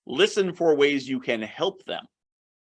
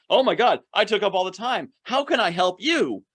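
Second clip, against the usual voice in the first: mock dismay; 8 semitones higher than usual. Client realizes they took all time.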